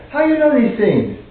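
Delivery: imitating a Mandarin speaker's British-learned English, abandoned halfway; a failed stab at her Chinese-born British accent; attempted Chinese-born British accent. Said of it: "I can't do her accent".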